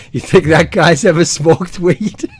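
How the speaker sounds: slow, hushed mock question; a hint of a snickering aside; quoted aside. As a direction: mimic a sly whisper to a friend. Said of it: "Richard just turns to me and goes".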